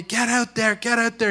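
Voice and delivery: mock yelling coach; urgent coach call, held back; retold coach's yell. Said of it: "coach is yelling at me".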